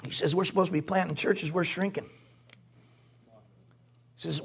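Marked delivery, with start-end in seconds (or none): 0.3-2.1 low, soft, defeated murmur; discouraged pastor. Retold or imitated. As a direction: imitate a worn-down pastor quietly admitting failure. Quotes discouraged New England church planter.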